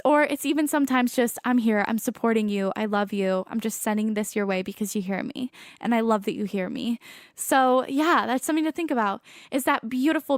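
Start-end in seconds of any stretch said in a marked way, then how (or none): 1.4-7.0 lower, softening, tender message; gentle reassurance. Retold or imitated. Voices a loved one's reassuring message.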